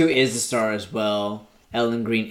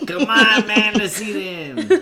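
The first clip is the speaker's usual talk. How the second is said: higher, louder words through laughter; laughing; 10 semitones higher, 5 dB louder than usual. Real, not acted. Cohost laughing at the clip, words through laughter. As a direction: talk while cracking up.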